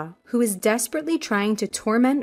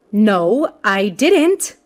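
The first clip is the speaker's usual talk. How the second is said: loud, emphatic denial; insistent, raised-voice no; vehement denial; 5 dB louder, much slower than usual. Acted. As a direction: deny it firmly, leaning on each word. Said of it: "vehemently shook his head in denial".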